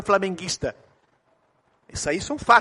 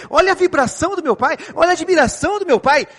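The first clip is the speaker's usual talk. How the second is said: put-on much higher, louder child voice; wide-eyed child; 9 semitones higher, 5 dB louder than usual. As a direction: sound like an awed little boy. Son admires excited father.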